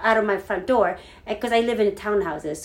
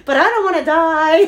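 higher, louder comic whimper of fear; mock fear; 6 semitones higher, 8 dB louder than usual. Torn between niece and safety, higher louder mock fear. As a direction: ham up not wanting to die.

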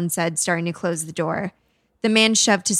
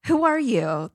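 put-on high child's question; lightly voiced little ghost boy; 6 semitones higher than usual. A narrator's reading. Ghost boy questions the woman, high and childlike.

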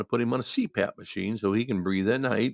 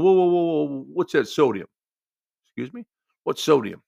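baffled; 6 semitones higher, 5 dB louder than usual. Retold or imitated. Patient baffled by sodium.

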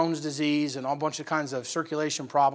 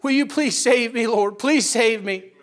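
raised pleading voice of a weeping woman; imitated tearful plea; 5 semitones higher, 4 dB louder, slower than usual. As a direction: plead like a repentant old lady, voice lifted. Woman's tearful prayer retold in sermon.

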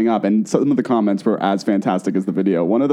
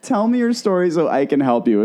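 lightly declaimed, higher mock plea; imitated celebrity voice; 5 semitones higher than usual. Host quoting the star's offer to refugees, lightly put-on voice. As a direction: repeat her line as a would-be rescuer. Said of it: "something so brilliant about that".

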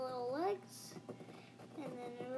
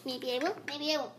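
loud teasing villain taunt; sneering panto villain; 7 dB louder, faster than usual. Pretend. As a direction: taunt it louder, villain style. Teasing villain repeat louder.

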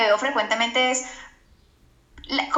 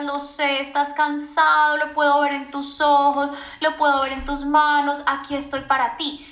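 soothing parent; 2 semitones higher than usual. Retold or imitated. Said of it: "tú le digas".

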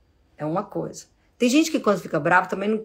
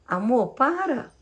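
gentle plea; 8 semitones higher than usual. Shown as a demonstration. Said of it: "Olha o tom da minha voz".

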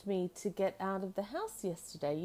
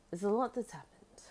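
whispering. Real, not acted. Aside whispered.

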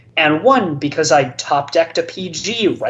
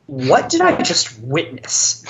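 slow, stunned question; retold speechless disbelief; 2 semitones lower than usual. Player after his opponent's meltdown, speechless disbelief. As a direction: act out dumbfounded disbelief, spacing the words. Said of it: "wide-eyed and speechless".

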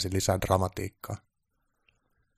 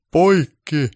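high, loud director's yell; sudden imperious call across the set; shouted cut; 9 semitones higher, 10 dB louder than usual. Acted. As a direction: stop the whole shoot with one shout. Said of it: "herra Baltasar huusi".

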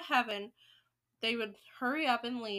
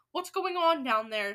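louder, commanding demand; acted shout; 5 dB louder than usual. Grand High Witch questioning from the platform, shouting. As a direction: demand an answer in a raised voice. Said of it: "shouted the Grand High Witch".

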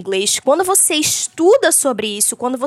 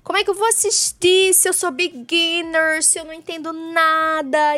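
panicked beginner; 5 semitones higher than usual. Pretend. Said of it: "Surtos e gritarias nesse momento".

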